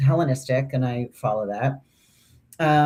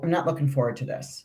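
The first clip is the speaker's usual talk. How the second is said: laughing; 6 dB quieter, faster than usual. Real, not acted. Dreading her conflict day.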